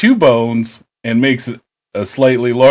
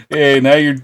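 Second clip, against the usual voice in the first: usual speaking voice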